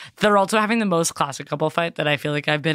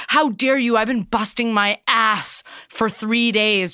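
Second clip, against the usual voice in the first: raised, mildly outraged husband impression; mock indignation; 4 semitones higher than usual. Husband defends his decorating to his wife, mock indignant. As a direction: play the wronged husband, higher pitched.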